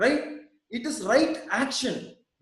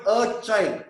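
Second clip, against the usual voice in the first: put-on "a" in "a child" leaned on with a falling tune; weight the article "a" in "a child"; "a" stressed over "child". Shown as a demonstration. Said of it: "I'm stressing on that word".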